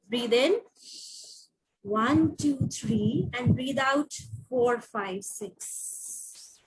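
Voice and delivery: slow counted breathing, fading to a breath; calm breathing count, last number breathed out; guided breathing. Shown as a demonstration. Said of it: "show me how to breathe".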